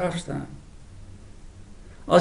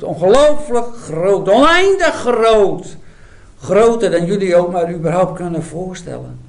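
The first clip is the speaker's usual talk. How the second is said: building proclamation; 2 semitones higher, 4 dB louder than usual. Acted. Isaiah's building insistence.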